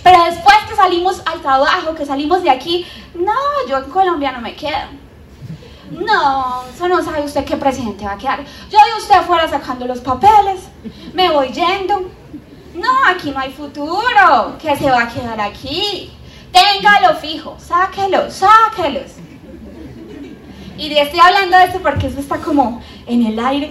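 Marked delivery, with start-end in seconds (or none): 3.1-16.1 hammed-up worried compatriot pushing you to emigrate; paisano alarmista. Voicing fearful churchgoers' talk. 16.5-19.1 higher and louder, insistent; urgent mock push. Urging to get papers out.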